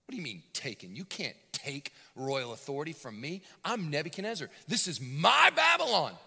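indignant king. Retold or imitated. King protesting.

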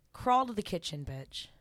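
lightly acted commanding mistress; in character. Mistress ordering her client to the kitchen, lightly commanding. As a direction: give an order as the mistress in charge. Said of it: "I just get into character".

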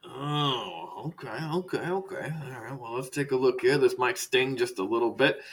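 soft, easing okays; soothing doctor. Acted. Doctor warning patient it might sting, soothing. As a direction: drop the volume and settle the patient.

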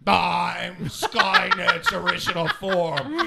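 loud, slow menacing machine voice; evil robot voice. Retold or imitated. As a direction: boom it out like a villain AI. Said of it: "Its voice sounds like".

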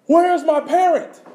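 put-on high, loud, slow child's frightened wail; scared lost child. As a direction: cry out like a lost, frightened kid. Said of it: "Freaked out, crying".

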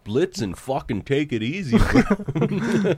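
mock Canadian reindeer; put-on Canadian accent. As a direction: chide a buddy in a Canadian accent. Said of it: "very Canadian accent?".

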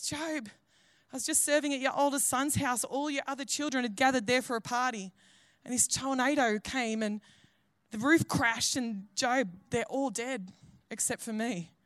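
subdued, softened messenger voice; grave news. Acted. Messenger telling Job his children died, gravely. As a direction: break the terrible news gently, haltingly.

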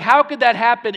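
loud, incredulous anger acted out; frustrated outburst. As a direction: act out David's rising frustration. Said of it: "David is getting angry. He's frustrated".

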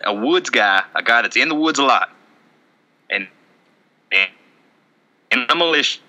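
loose impression of a Southern good old boy; hint of a backwoods Southern militia guy; Colby Rasmus. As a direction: play a rambling Southern woodsman, lightly. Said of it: "I'm Colby Rasmus".

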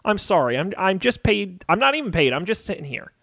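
stammering, pleading underling; nervous intern, tripping over repeated words; flustered intern guard. Acted. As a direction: babble excuses like a cornered intern.

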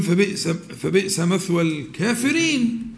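slow, stumbling "فبئس، فبئس" then ending on الكافرين; careless misquote. Shown as a demonstration. Teacher mimics a student who hasn't memorized it, hesitant. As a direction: imitate someone misremembering the verse. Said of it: "الواحد مش حافظ يقول".

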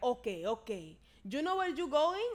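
lightly imitated Spanish-accented driver; mock Spanish-accented question. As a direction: ask with a hint of Spanish accent. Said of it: "This is all in a Spanish accent".

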